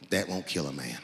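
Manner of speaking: very low, rumbling country clerk; deep clerk voice. Retold or imitated. Clerk explaining birdshot, very low rumble. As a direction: drop way down for the gun clerk. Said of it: "he goes just like this".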